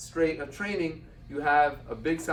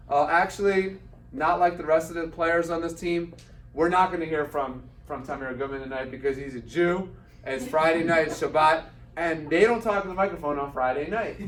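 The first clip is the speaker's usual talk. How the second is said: arena announcement; 3 semitones higher, 6 dB louder than usual. Retold or imitated. Director announcing to the fans.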